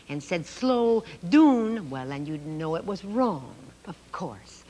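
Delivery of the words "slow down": "doon" said with an oo vowel instead of ow; mistaken "doon". Shown as a demonstration. Teacher demonstrating the wrong "doon" to children. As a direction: say "doon" rhyming with moon, as a wrong example. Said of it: "If you made a mistake".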